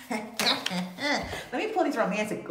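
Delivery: drawn out through a chuckle; chuckling, slow. Real, not acted. Reader about to pull cards, slow and chuckling. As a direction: ease into it with a laugh. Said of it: "I just got a little bit excited".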